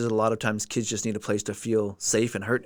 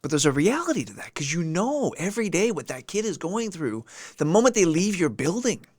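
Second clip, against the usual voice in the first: holding back tears; 3 semitones higher than usual. Real, not acted. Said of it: "I'll try my best not to cry".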